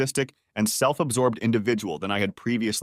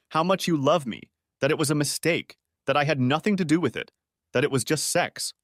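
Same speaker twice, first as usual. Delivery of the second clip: furious; 4 semitones higher than usual. Acted. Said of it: "Shocked by my fury".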